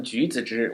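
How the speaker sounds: 橘子汁 said clearly in Mandarin, each tone careful; teacher models 橘子汁 syllable by syllable; slow Mandarin demo. Shown as a demonstration. Teacher shows learners how to say it, careful Mandarin. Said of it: "Why is this difficult to say".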